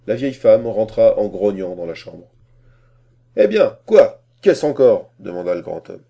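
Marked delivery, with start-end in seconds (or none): 3.4-5.1 high, loud exasperated questions. A narrator's reading. Master interrupted by servant while shaving, exasperated. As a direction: burst out at the interruption.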